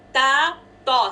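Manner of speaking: light ta then heavy taw; slow ta versus taw; ta and taw contrast. Shown as a demonstration. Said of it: "same जगह से आ रहा है".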